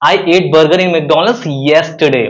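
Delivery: "yesterday" punched at the end of "I ate burger in McDonald's yesterday"; stress on yesterday. Shown as a demonstration. Teacher shows stress on the time. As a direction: save the weight for "yesterday". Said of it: "अगर मैं yesterday पर जोर दूं".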